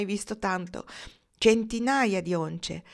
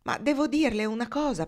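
higher-pitched, pleading protest; 6 semitones higher, 4 dB louder than usual. A narrator's reading. Foxy protesting that he has news for Marnie, protesting. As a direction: object urgently, pitch jumping up. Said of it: "protestò Foxy".

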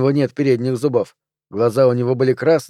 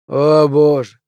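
groan; 2 semitones higher, 4 dB louder, slower than usual. Acted. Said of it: "простонал Пелвис".

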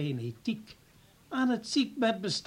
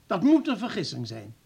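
louder, outraged protest; indignant denial; 4 dB louder than usual. Acted. Professor indignantly rejects the accusation against his doctor, louder. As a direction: refuse to believe it, rising indignation.

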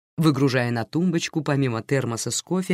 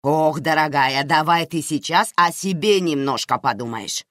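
exclaiming; 2 semitones higher than usual. Acted. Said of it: "воскликнула Наира".

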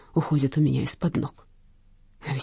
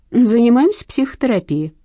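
brushing him off, louder; dismissive; 7 semitones higher, 6 dB louder than usual. A narrator's reading. Detective brushing off uncle Vasya, dismissive. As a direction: wave the question away. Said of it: "отмахнулась я".

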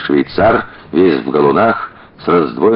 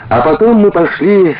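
chirping; 12 semitones higher than usual. A narrator's reading. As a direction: chirp it like an excited schoolgirl. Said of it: "щебетала Лиская".

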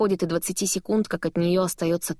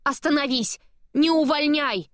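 high pleading shout, panicking; panicked plea; 7 semitones higher than usual. A narrator's reading. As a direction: beg him to stop, voice high. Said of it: "в панике кричу я".

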